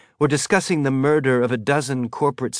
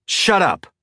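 sharp, commanding shout; 9 semitones higher, 4 dB louder than usual. Acted. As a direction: bark to silence the room. Baja silences the shouting room.

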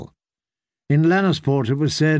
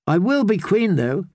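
put-on eager girl voice; 5 semitones higher than usual. Young girl asks eagerly.

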